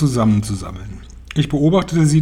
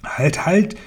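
high-pitched call to halt; urgent raised witch voice; 6 semitones higher than usual. A narrator's reading. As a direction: call out high, without much volume. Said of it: "rief die Hexe".

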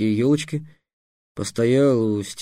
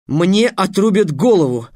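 higher, louder exclamation; exclaiming; 8 semitones higher, 7 dB louder than usual. A narrator's reading. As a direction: burst out with the realisation. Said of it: "воскликнул Трикс". (громкое радостное восклицание)

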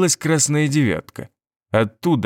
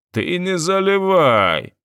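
indignant; 7 semitones higher, slower than usual. A narrator's reading. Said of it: "возмутился Ризо".

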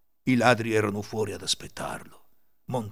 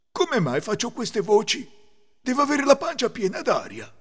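higher-pitched bewildered wolf; puzzled wolf; 11 semitones higher, 5 dB louder than usual. A narrator's reading. Wolf baffled by voices in his belly, puzzled musing. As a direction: wonder aloud in a character voice. Lupo perplesso parla tra sé.

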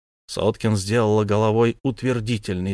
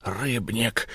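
softer, croaked out name; hoarse rasp; 5 dB quieter than usual. Acted. Tortured son croaks the informer's name, hoarse and weak. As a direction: rasp the name with last strength. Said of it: "прохрипел Уллиншпигель".

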